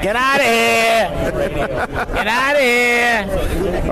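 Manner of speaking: cartoon rabbit voice, high and slow; Roger Rabbit voice. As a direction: stretch it out like a zany cartoon rabbit. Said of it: "I'm a voice of a cartoon rabbit".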